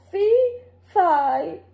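frustrated giant trying again; giant wailing. A narrator's reading. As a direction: giant wailing at another wrong rhyme. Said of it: "the giant wailed".

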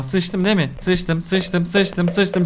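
soft, dreading mutter; quiet repeated dread; low worried murmur. Real, not acted. About to be caught.

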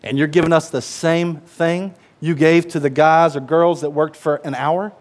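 slow, drawn-out grumbling protest; slow indignant complaint. Retold or imitated. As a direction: drag it out like an offended worker. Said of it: "They're thinking".

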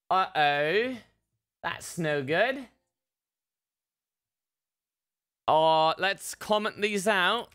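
lightly put-on British accent with rising tag questions; mock British accent. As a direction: think aloud as a pretend British coder. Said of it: "I don't know what fucking accent I'm doing".

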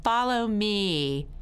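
lightly voiced commanding principal; ordering principal. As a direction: draw out the order. Principal orders the guilty child.

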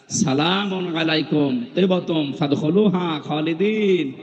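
slow, drawn-out Arabic recitation; angels' Quranic greeting. Retold or imitated. Preacher quotes angels welcoming people into paradise, slow recitation. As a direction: recite it slowly, stretching the long vowels. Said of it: "এই শব্দ দিয়ে আপনাকে সম্ভাষণ জানাবে".

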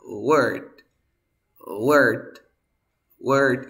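"word" drilled loudly with an E vowel; teacher repeating "word" with an E sound. Shown as a demonstration. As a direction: punch out "word", o like E. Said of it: "Todas tienen este sonido tipo E".

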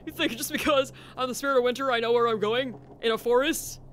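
a mock-outraged tirade; exasperated. Real, not acted. Lost in the forest, ranting at the audience, exasperated.

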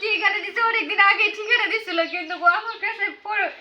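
tearful account of being let down; crying. Real, not acted. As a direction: explain through real tears. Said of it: "কান্না করছেন কেন আপনি". (কাঁদতে কাঁদতে বলা)

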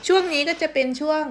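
talking with a mouthful; cheeks stuffed full. Real, not acted. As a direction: speak around a bite of food. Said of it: "กินไปพูดไปค่ะ".

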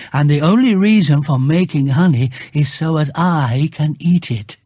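a hint of a puzzled bear reasoning it out; Pooh thinking aloud. Bear reasoning aloud to himself, lightly voiced puzzled bear.

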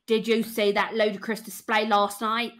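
Londoner at the pub mouthing off about last night's match; London pub accent. Shown as a demonstration. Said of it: "the pub London goer accent".

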